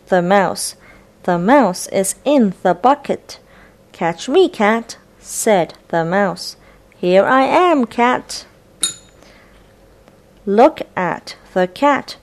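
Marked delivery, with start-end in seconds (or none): 3.9-5.0 mouse voice. Acted. Mouse character voiced in story. 7.0-8.5 mouse voice. Acted. Mouse character voiced in story.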